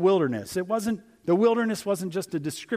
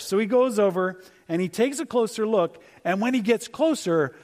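usual speaking voice

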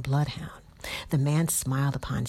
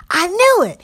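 loud, much higher crow of triumph; triumphant yell; 14 dB louder than usual. Acted. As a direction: shout it like you've caught your prey. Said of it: "he yelled".

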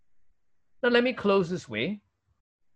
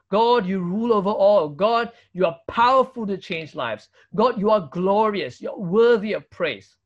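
emphatic, declaring praise to God; 4 dB louder than usual. Acted. Preacher voicing a prayer to God, emphatic praise. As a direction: proclaim each line with conviction. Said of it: "This is the language of praise".

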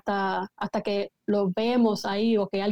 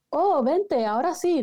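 mock eager welcome; 5 semitones higher, slower than usual. Discípulos ahora sí llaman.

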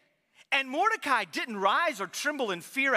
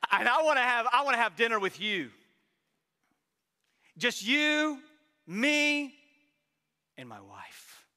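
Trump impression. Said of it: "that very distinct voice".

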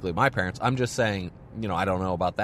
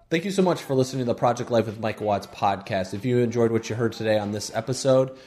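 friendly sign-off read; podcast outro read; 2 semitones lower than usual. Acted. Podcast outro read over music.

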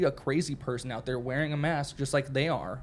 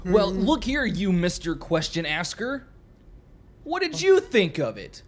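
high, loud, slow showman voice; mock formal announcer; 5 semitones higher, 5 dB louder, slower than usual. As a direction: address him like a pompous host. Mock formal address to friend.

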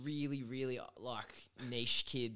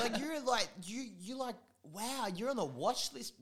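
teasing; 10 semitones higher than usual. Retold or imitated. Teasing continues.

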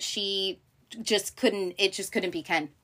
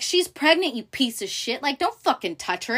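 imitated indignant outburst, higher-pitched; protective brother; 6 semitones higher than usual. Roman defending his pregnant sister from Kendall, protective indignation. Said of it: "the protective brother way of Roman".

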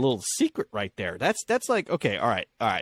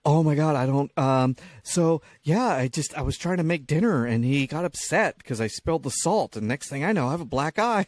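mock panic; 3 semitones higher than usual. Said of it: "she panics and she's just like".

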